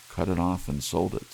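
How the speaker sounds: put-on a young wife begging her husband not to be angry; pleading young wife. Della answers Jim.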